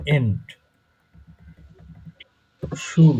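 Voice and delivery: "এন্ট", "শুল" as separate syllables with long gaps. Shown as a demonstration. Teacher shows student how to split a long word, syllable by syllable "এন্ট... শুল". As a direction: break it up: "এন্ট", pause, "শুল". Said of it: "syllable ভাগ ভাগ করে নেবেন এরকম".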